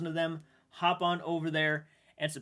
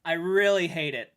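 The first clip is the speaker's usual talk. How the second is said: words catching as feelings rise; upset voice close to tears; getting emotional; 3 semitones higher, 4 dB louder than usual. Real, not acted. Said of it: "I'm getting emotional".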